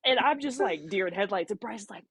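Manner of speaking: ordinary talk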